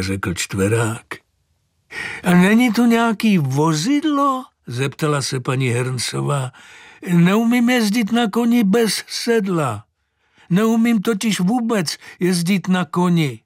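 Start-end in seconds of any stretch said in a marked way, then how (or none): 2.2-13.4 put-on high, astonished old lady; old woman marvels at the horse, high and amazed; old woman's voice. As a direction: pitch up into a fussy old woman's voice. Mrs Herncová voiced by reader.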